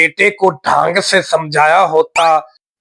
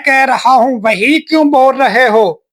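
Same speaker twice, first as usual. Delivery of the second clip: angry shout; 5 semitones higher than usual. Acted. Boy yelling at the copycat to shut up, angry. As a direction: yell at him to stop copying.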